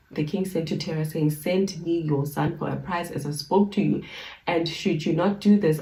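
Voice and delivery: measured, formal Bible reading; scripture reading. Acted. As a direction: read the old text with solemn care. Resumes reading from verse.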